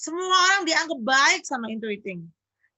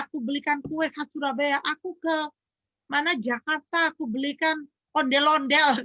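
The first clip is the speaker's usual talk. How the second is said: higher-pitched, exasperated mock protest; acted indignant husband, pitched up; 4 semitones higher than usual. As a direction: plead your case, listing proof item by item. Acted husband protesting to his wife.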